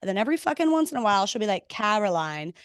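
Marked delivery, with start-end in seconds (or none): 1.7-2.5 lower, softer mock-posh British "Caroline"; "Caroline" with an open British a, lightly hammed; imitating a mother's British "Caroline"; uppity British accent. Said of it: "a British accent ... feeling uppity".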